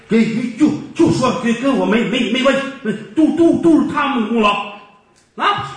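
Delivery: a light stammer, repeating syllables; tripping over each word; stuttering. Acted. Stutterer insisting the credit is theirs, lightly stammering. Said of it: "把结巴喊上来了".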